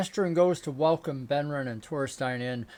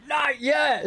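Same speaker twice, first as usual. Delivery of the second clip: mock reply; 10 semitones higher than usual. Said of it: "You're like".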